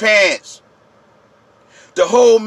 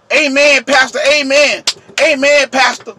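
raised, eager congregant's call; mock amen-saying congregation; 4 semitones higher than usual. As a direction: call out amens, imitating an agreeing flock. Mimics congregation approving the pastor.

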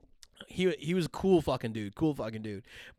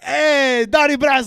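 loud, high mock greeting; hailing shout; 12 semitones higher, 14 dB louder than usual. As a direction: holler it like hailing an old pal. Imitates sub hailing him on sight.

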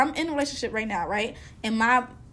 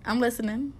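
low, soft guilty confession; quiet role-play confession; 3 semitones lower, 9 dB quieter, faster than usual. Pretend. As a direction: mumble it like a guilty boyfriend. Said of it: "let's role play".

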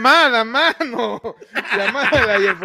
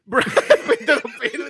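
laughing; 5 semitones higher than usual. Real, not acted. Host echoes the chant laughing.

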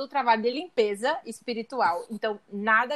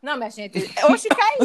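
choking; 2 semitones higher, 4 dB louder than usual. Real, not acted. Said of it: "Se engasgou com a própria maldade".

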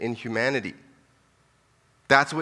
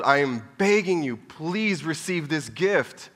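high, slow pleading voice of God; pleading father begging his child to come home; 4 semitones higher than usual. Acted. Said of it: "He's begging you to be reconciled to him".

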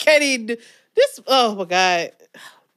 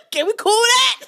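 laughing with a high teary voice; 11 semitones higher than usual. Real, not acted. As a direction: laugh till you nearly cry. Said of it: "It is hot".

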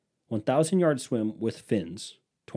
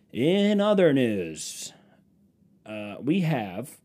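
slow, drawn-out anchor segue; newscaster voice; much slower than usual. Acted. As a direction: slowly announce the next story like a news anchor. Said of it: "Let me do my little newscaster voice".

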